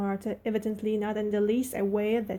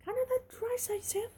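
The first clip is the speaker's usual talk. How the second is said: broad Yorkshire, much higher in astonishment; amazed broad Yorkshire; 4 dB quieter than usual. Acted. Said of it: "She spoke in broad Yorkshire in her amazement".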